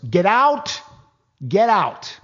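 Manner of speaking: high mock yell; imitated director yell. The director ordering the extras off set, high mock yell. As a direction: bark it like an annoyed director. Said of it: "Tom Shadyac yells".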